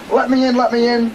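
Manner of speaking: high mock yell, urgently repeated; half-screamed plea to be let in; acted screaming. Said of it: "beating on the rock and screaming".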